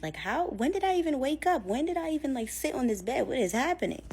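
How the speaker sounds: retold confused protest; baffled questioning. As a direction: act out bewildered disbelief. Sleepwalker baffled at waking up.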